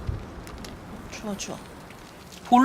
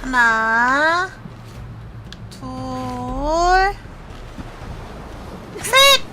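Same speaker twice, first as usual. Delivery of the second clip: shouted count; much slower than usual. Real, not acted. Counting down a jump.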